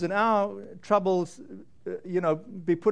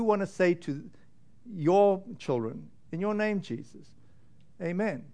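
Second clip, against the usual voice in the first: a prayer that sinks to a hush by the amen. Acted. Closing prayer over congregation.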